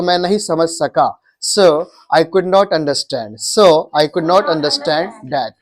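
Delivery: slow model sentence. Shown as a demonstration. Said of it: "या ऐसे बोल सकते हो".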